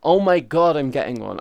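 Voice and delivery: loud mock hype; mock excitement. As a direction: gush like an eager buyer. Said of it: "everyone will be like".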